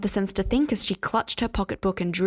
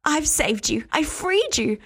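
higher, louder rushed babble; babbling; 7 semitones higher, 3 dB louder than usual. Acted. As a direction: pour it out in a manic rush. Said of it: "she babbled".

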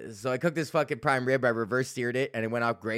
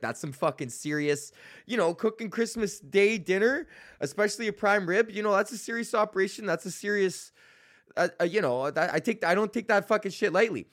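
raised, grave mock-serious voice; playing it up like a serious chef; hammed-up gravity, pitched higher; mock solemn chef; 7 semitones higher than usual. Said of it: "I was like".

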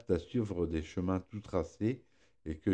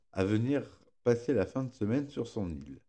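lisping through a pierced tongue; tongue piercing; 4 semitones higher than usual. Real, not acted. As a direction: speaks carefully around a sore tongue. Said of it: "je me suis fait percer la langue hier".

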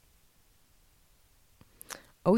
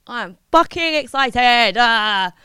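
louder, bursting with excitement; excited outburst; 3 semitones higher, 5 dB louder, slower than usual. Real, not acted. Host about to jet off to Thailand, loudly excited. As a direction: let the excitement out loud. Same words again, bursting out.

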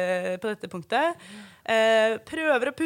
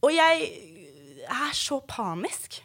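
near tears; slower than usual. Real, not acted. Reliving panic in labour.

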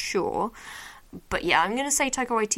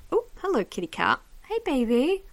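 higher pet-talk greeting; cooing to cat; 5 semitones higher than usual. Real, not acted. Podcaster to a cat who snuck up, cooing.

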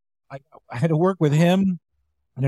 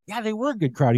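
mock cheerful; 7 semitones higher than usual. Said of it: "I'm like".

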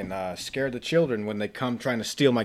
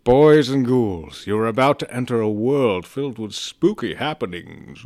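jack o lantern voice. Acted. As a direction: draw out Boys and Ghouls, eerie. Spooky Halloween show intro.

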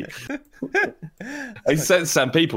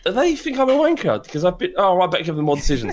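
high, fretful voice of a ref who feels insulted; jumpy mock referee, going high; mock worried ref; 4 semitones higher, faster than usual. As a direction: play the nervous ref talking to himself. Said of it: "they're like".

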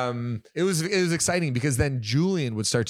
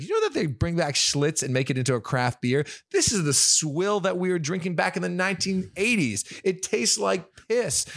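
high-pitched Boston rant, imitated; Boston accent; 7 semitones higher than usual. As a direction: get carried away in mock Boston speech. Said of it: "got him talking like a Boston person".

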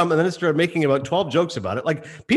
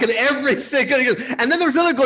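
usual speaking voice

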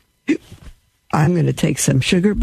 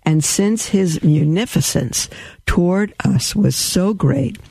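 devotional reading. Acted. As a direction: read it like a prayer of praise. Rereads the sentence.

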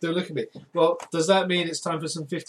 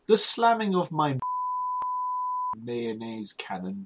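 put-on posh accent; 5 semitones higher than usual. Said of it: "in a posh accent".

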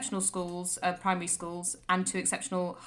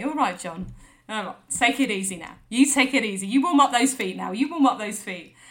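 mock tender farewell; 4 dB louder than usual. Mock tender send-off to neighbour.

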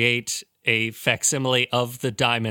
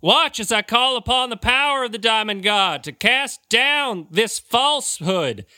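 impostor deacon shouting; 10 semitones higher than usual. Acted. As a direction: bellow like an outraged holy man. Fake deacon invokes the Diamond God.

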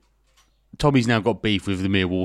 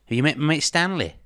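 put-on higher-pitched stab at a Liverpool accent; failed Liverpool accent; 7 semitones higher than usual. Quoting Liverpool hooligans drawing knives, in failed Liverpool accent. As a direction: quote it in a not-quite-Liverpool accent. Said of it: "that's not a Liverpool accent".

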